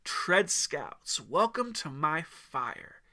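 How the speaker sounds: low crisp welcome. Acted. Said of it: "his voice low and crisp".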